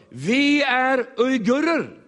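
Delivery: slow, high, loud reply; uigurer answering. Retold or imitated. Woman telling the preacher who they are, slow and loud. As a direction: announce it slowly and proudly. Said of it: "Så tittar de bara".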